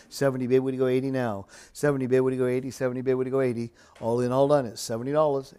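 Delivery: rhythmic auction chant; auctioneer. Real, not acted. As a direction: rattle off the bids in a steady chant. Live auction bid calling.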